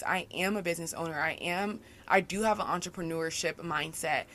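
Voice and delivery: "I am a business owner" stated firmly, stress on "am"; confident statement. Real, not acted. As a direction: own "business owner" as plain fact. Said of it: "the reality is I am doing these".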